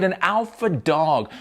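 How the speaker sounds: normal talking voice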